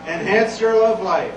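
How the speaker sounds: slow, drawn-out email pitch; mock ad pitch. Reading embarrassing work emails to the crowd, mock ad pitch. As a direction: read it out like a sales slogan. Reads out spam email subjects.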